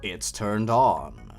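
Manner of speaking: reading a creepy tale aloud, lightly dramatic; story narration. Acted. Narrator reads the creepypasta to his viewers, lightly spooky. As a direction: tell it like a spooky campfire story.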